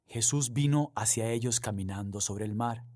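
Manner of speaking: reading the Gospel aloud, measured and solemn; lectura solemne del Evangelio. Acted. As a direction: proclaim it to the congregation. (lectura del Evangelio, pausada y solemne)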